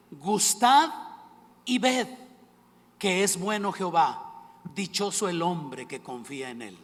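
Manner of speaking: loud, emphatic scripture reading; lectura bíblica. Acted. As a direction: proclaim the verse with big pauses. Reads a psalm aloud. (lectura solemne y enfática de la Escritura)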